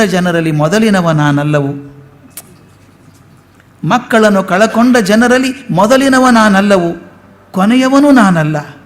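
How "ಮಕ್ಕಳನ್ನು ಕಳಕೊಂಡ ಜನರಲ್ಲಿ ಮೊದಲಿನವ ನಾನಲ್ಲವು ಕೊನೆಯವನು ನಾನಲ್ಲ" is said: lifted, sung-out verse reading; poem recitation. Shown as a demonstration. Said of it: "recited take of the line".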